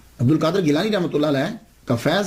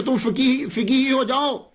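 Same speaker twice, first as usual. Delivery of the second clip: mocking taunt; 6 semitones higher, slower than usual. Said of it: "مذاق اڑانے لگے".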